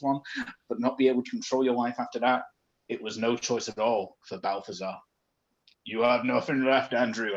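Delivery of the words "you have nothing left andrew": ghost voice. Acted. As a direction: speak as a spirit from beyond. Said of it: "I'm doing a ghost voice".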